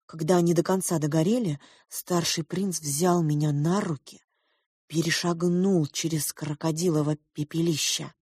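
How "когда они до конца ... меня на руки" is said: plain reading voice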